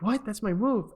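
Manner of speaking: mock indignant protest. Fighter objecting to coach's ban, mock indignant. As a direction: act out a mildly outraged fighter.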